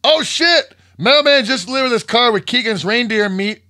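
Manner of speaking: high, loud, alarmed "oh shit"; excited quote. Retold or imitated. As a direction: read his message like he's panicking. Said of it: "he wants to know".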